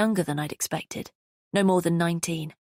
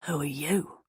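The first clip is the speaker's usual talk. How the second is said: parrying it back; 3 dB quieter than usual. A narrator's reading. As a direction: throw her question straight back at her. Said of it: "the voice parried".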